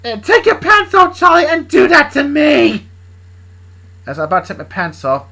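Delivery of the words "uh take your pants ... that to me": loud, high, drawn-out come-on; seductive. Acted. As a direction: demand it seductively, slow and high-pitched. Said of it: "she said in a seductive way".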